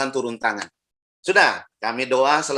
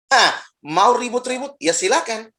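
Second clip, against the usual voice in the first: mocking dare; 9 semitones higher, 4 dB louder, slower than usual. Preacher mocking quarrelers.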